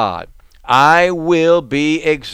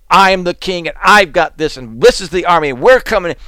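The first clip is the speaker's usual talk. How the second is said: louder, quicker, chest-thumping boast; mock boastful king; 4 semitones higher, 5 dB louder, faster than usual. Preacher mocking a loud boastful king. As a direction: puff up like a bragging king declaring war. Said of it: "slams its fist down with anger and loudness".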